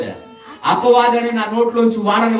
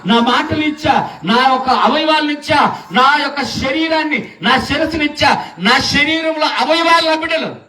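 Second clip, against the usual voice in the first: put-on higher, ringing voice of God calling his children; preaching at full force; 9 semitones higher than usual.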